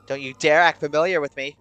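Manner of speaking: loud, indignant warning; angry. A narrator's reading. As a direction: warn them off angrily. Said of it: "panting hard and angrily".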